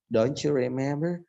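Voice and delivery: DON'T YOU REMEMBER slow, with "donchu"; C sound linking. Shown as a demonstration. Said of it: "Ada C-nya di situ". ("don't you remember" pelan, dengan bunyi C: "donchu")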